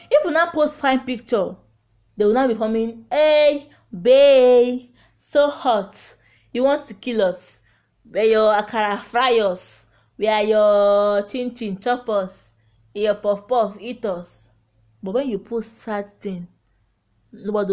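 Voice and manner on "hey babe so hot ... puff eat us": loud, teasing catcall voice mocking men in the comments; flirty commenters. Mocking flirty men commenting on her fine picture, loud catcalling. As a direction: hype her up like a thirsty admirer.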